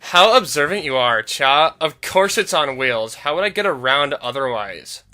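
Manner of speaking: put-on lightly sassy Valley Girl. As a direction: Maggie teasing the player as a Valley Girl. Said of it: "Valley Girl voice".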